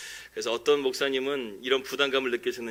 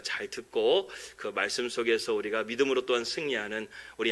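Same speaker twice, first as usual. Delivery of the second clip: earnest, even-paced prayer; pastor's opening prayer before the sermon; congregational prayer. Real, not acted.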